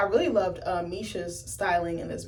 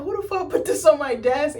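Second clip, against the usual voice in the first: mock angry Charlie; 7 semitones higher, 5 dB louder than usual. Voicing Charlie angry at desk.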